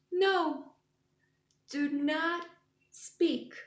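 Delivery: high, loud build to a big sneeze; dramatic sneeze. Acted. Gerald telling Piggy to stop before a huge sneeze. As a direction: hold back then burst out in a sneeze.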